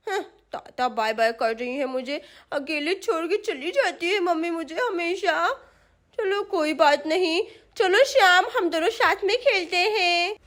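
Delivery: lightly voiced child, grumbling then brightening; left-behind little girl. Sonam left with Shyam by mummy, grumbling child, then playful. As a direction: babyish grumble that turns into an invitation to play.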